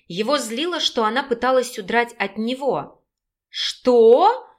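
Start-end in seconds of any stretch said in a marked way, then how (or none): 3.5-4.5 louder, indignant outburst. A narrator's reading. Raina outraged at Derek's insult, indignant. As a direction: throw the word back at him. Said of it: "возмутилась Раина".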